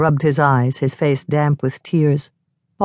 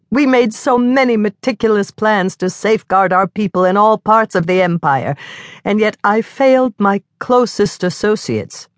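higher, anguished self-blame; anguished moan; 6 semitones higher than usual. A narrator's reading. Mordecai blames himself for his murdered staff, anguished and higher. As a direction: cry out in guilty anguish. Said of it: "Mordecai moaned".

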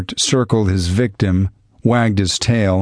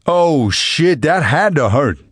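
higher wincing voice of a bystander; grimacing sympathy; 7 semitones higher, slower than usual. A narrator's reading. Good Samaritan wincing for the criminal, pained. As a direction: wince on his behalf. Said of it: "grimaced in sympathy".

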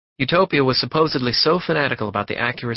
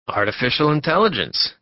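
echoed back higher and louder, impressed; wondering echo; 4 semitones higher, 3 dB louder than usual. Acted. Passenger echoing Warren's job, higher and louder. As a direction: repeat it back like a curious stranger. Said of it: "came the echo".

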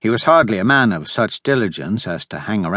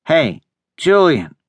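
calling out; 5 semitones higher, 3 dB louder than usual. Acted. Calling out for the boy.

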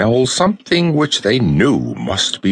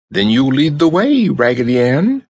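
high and louder, eager call; eager French dolly; 7 semitones higher, 3 dB louder than usual. A narrator's reading. French dolly urges Raggedy Ann to lead, eager. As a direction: urge Raggedy Ann on brightly. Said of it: "cried the French dolly".

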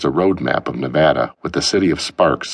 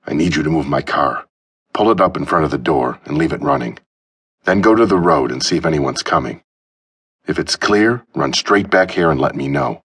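ordering. Acted. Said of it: "he ordered".

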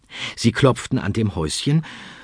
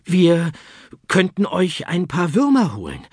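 much higher, louder hen voice; bargaining hens; 10 semitones higher, 4 dB louder than usual. Acted. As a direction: hens offering a trade. Hens make an offer.

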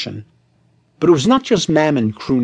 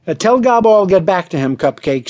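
a quick, higher, louder snap; snapped; 5 semitones higher, 4 dB louder than usual. Acted. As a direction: cut her off sharply. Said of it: "snapped the producer".

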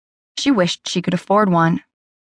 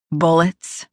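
a hint of a deeper, rougher growl; slightly deeper, rougher question. A narrator's reading. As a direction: roughen the repeat, a touch deeper. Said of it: "his voice deeper, rougher this time".

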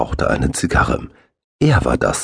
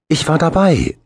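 high, loud joyful exclamation; happy cry; 12 semitones higher, 3 dB louder than usual. A narrator's reading. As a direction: burst out with joy. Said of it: "rief er glücklich".

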